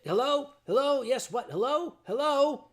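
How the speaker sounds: calling hello. Retold or imitated. Calling into phone, no answer.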